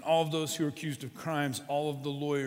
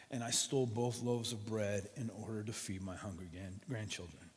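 put-on ashamed old woman; 2 semitones lower, 4 dB quieter than usual.

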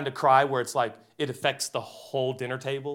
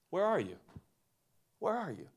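higher, hushed call to someone lost; soft questioning; 4 semitones higher, 8 dB quieter than usual. Retold or imitated. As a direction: ask it softly, leaving space after it. God's question voiced softly.

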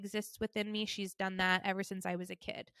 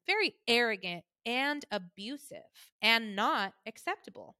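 mom's tone; 4 dB louder than usual. Retold or imitated. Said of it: "this is how she talks".

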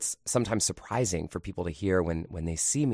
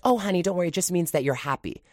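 high, sugary reassuring teacher; sweet teacher voice; 10 semitones higher, faster than usual. Retold or imitated. Yard duty teacher brushing off a second grader, high and sugary. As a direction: soothe the child with a fake sweetness. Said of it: "And she was like".

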